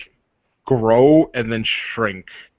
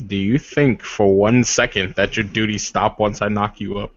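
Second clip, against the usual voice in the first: a hint of a formal, courtly warrior; lightly voiced noble warrior. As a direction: speak as a proud suitor, measured and earnest. GM voices NPC suitor.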